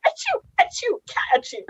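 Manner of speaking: mock cat sneeze. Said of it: "He just starts sneezing, like".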